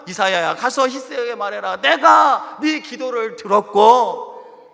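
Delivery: loud, slow divine proclamation; voicing God. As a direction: proclaim it as God's word. God's words to Isaiah. (하나님의 선포)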